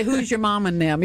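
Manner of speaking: lightly put-on Southern accent. Host teasing a Southern actress, light Southern accent. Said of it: "that can be very Southern".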